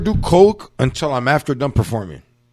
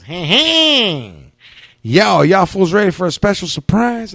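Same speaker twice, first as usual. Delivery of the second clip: hyped host call; 6 semitones higher, 5 dB louder than usual. Retold or imitated. Host hypes crowd for surprise.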